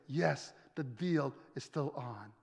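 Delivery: low, soft, settled answer; quiet assurance. Acted. Preacher answering the disciples' doubt, softly assured. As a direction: bring it down to a hushed affirmation.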